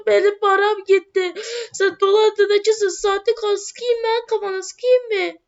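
lightly voiced furious customer; angry cheated villager. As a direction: accuse the con man, drawn out and high. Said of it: "sizin sesinize ne oldu?".

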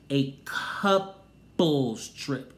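a couples trip stretched very slow; drawn-out mock emphasis. Mimicking Sanya's insistence, very slow and drawn out. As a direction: drag "A couples trip" out mockingly, each word slow. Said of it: "she's really adamant".

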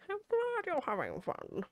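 slow, high and lilting, over-sweet; high, sing-song mom voice. Shown as a demonstration. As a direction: say "glad" rising high like a doting mom. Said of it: "repeats line differently".

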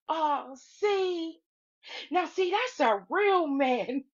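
imitating a panel of women swooning; adoring cooing. Every woman on the panel admiring Omar, mock adoring. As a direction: coo it high and drawn out. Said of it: "uncovers a little baby and everybody goes".

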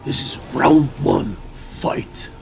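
slow, dramatic round announcer; booming fighting game announcer. Pretend. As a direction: call the round like an arena announcer. Mimicking fighting game start.

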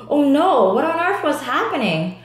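sudden high alarmed cry; mild storybook alarm. Acted. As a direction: panic as you're scooped up. Scooped up by shovel.

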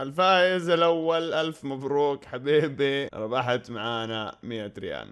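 slow, ceremonial prize announcement; booming prize announcer. Shown as a demonstration. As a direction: announce the winner slowly.

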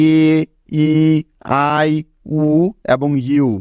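each vowel sounded alone, এ, ই, আই, উ, ইউ, with pauses between; isolated vowel sounds এ, ই, আই, উ, ইউ; closed-syllable vowel sounds. Shown as a demonstration. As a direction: sound out এ, ই, আই, উ, ইউ one by one. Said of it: "এই ভাওয়েলগুলোর উচ্চারণ হবে".

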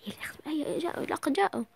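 hushed, hurried whisper; urgent whisper. Acted. Sister warning her sister the boys are coming, whispering. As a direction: whisper so the boys don't hear.

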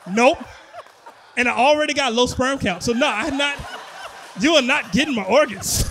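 loud, emphatic comic protest; adamant refusal. Real, not acted. Comedian refusing to give up his organs, loud and adamant.

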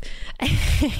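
high breathy demon giggle; a creepy airless cackle; little demon laugh. Retold or imitated. Telling friends the plot, the demon giggles. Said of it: "like a little demon laugh".

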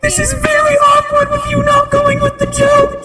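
ghost voice. Pretend. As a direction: wail it like a ghost through a voice changer. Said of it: "I'm turning off the voice".

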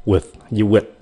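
"With với with" said quickly, the "with" clipped short; quick with demo. Shown as a demonstration. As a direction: say "with" fast with the tongue stopping the air. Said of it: "Để mình phát âm hai cái từ này nhanh". (đọc nhanh "With với with")

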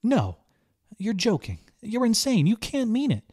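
high, loud frantic disbelief; desperate denial. A narrator's reading. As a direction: reject it in mounting panic. Girl refuses to believe.

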